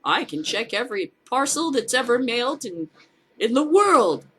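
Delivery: a hint of a boasting official; lightly voiced pompous bureaucrat; mock bragging official. Mocks official's claim.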